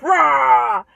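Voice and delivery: put-on very loud roar to scare kids off; big chasing-away roar; giant's roar. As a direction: roar "rah" at full volume.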